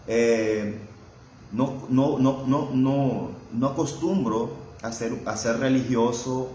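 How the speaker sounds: normal talking voice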